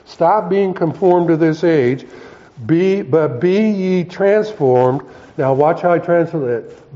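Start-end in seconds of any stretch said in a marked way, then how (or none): 0.0-5.0 firm quoted command, slowing toward the end; lightly scolding, weighty scripture quote; mild rebuke. Retold or imitated. Apostle slapping them around a little, mildly rebuking. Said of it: "he's actually slapping them around a little bit".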